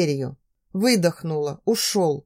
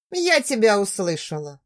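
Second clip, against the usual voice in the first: cool. Acted. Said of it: "сказала с прохладой".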